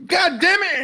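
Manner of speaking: high, loud frustrated curse; angry outburst. Acted. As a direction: snap it out in frustration. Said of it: "He's like".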